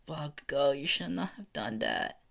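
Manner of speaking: high-pitched mock dismay; lightly acted high-voiced scolding; dismayed aside. All Might dismayed in the back.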